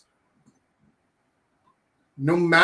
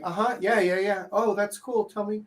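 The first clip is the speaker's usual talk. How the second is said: high, over-eager mock agreement; lightly mocking, higher voice; fake interested girl; 6 semitones higher, 3 dB quieter than usual. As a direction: imitate a girl faking interest while wanting out. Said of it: "they're like".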